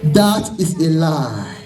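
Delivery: forceful, emphatic sermon delivery; fervent preaching. Real, not acted. Preacher warning the congregation about false hair, fervent preaching.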